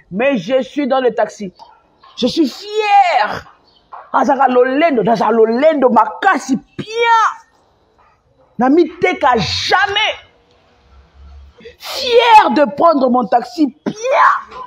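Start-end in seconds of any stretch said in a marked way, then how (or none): 2.2-7.2 crie, lent et haut; cri de fierté. Real, not acted. Monologue défiant en direct. 8.6-14.6 crie, lent, la voix qui pleure; cri ému. Real, not acted. Monologue défiant en direct.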